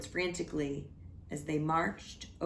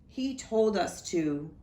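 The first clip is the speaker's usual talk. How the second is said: crying out; 3 semitones higher, 4 dB louder than usual. Acted. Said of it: "they cried".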